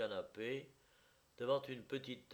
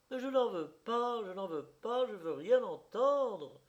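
high loud refusal; crying out; 10 semitones higher, 6 dB louder than usual. A narrator's reading. Wife shouting down the friend's pleas, loud. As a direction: shout him down, won't hear it. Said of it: "criait-elle".

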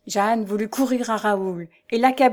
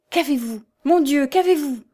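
higher, louder, alarmed exclamation; anxious emotion; 6 semitones higher, 4 dB louder than usual. A narrator's reading. Husband finding his young wife collapsed, cries out in alarm. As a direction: cry out with sincere worry. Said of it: "avec une émotion et une inquiétude qui n'étaient point jouées".

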